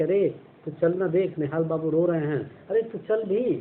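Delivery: put-on young girl urging her sister-in-law to come look; excited girl. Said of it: "जैसे कहती है कि".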